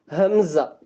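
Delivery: ஹம்சா started from the bottom of the throat; from deep throat. Shown as a demonstration. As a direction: begin ஹம்சா with a deep-throat glottal catch. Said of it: "அடித்தொண்டையில இருந்து".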